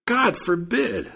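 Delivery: high, drawn-out storyteller's scream. A narrator's reading. Accuser denies the servant's tale, screaming. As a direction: cry out in protest, pitch soaring, words stretched. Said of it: "screamed the Jew".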